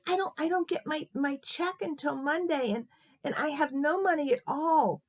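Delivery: high, loud, acted weepy voice; tearful. Old lady explains she has no money, acted tearful. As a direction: plead poverty through pretend tears. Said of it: "She started to cry".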